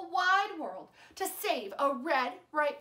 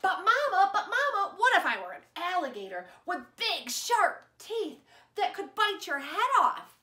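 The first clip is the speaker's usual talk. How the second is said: put-on higher, louder kid with a laugh; giggling eager child; 6 semitones higher, 4 dB louder than usual. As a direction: plead with Mama through giggles.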